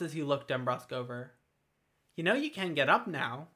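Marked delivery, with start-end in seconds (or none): 2.2-3.5 pointed, mildly needling; pointedly. A narrator's reading. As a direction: let the hint land, a touch sharp. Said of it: "he said pointedly".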